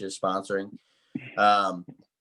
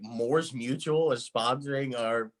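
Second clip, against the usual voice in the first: cheesy ad voice; 3 dB quieter than usual. Retold or imitated. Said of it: "those cheesy three A M ads".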